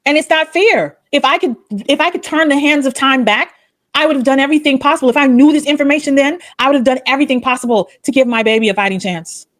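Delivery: heartfelt and insistent, pitch lifted; worked up, pressing the point; passionate. Real, not acted. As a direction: plead it with real conviction. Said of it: "to be so passionate about it".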